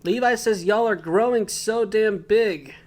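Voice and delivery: high breathy sultry Hanji voice; sexy voice. Retold or imitated. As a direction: purr it out, high. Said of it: "with her sexy voice saying".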